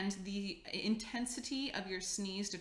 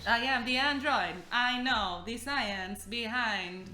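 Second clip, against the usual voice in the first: too smooth android; 4 dB louder, slower than usual. Pretend. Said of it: "Don't do that voice".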